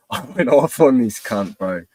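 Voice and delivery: worked up just remembering it; heated retelling; excited retelling. Real, not acted. Recalling going off.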